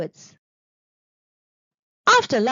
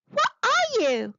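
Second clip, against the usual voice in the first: high, slow shocked question; 12 semitones higher, slower than usual. Acted. Eddie facing the pink creature, high slow shocked question. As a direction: gasp it out in disbelief. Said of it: "asked Eddie in shock".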